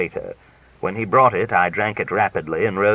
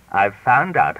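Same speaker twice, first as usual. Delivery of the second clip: triumphant; 5 semitones higher, 5 dB louder, slower than usual. A narrator's reading. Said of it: "I said triumphantly".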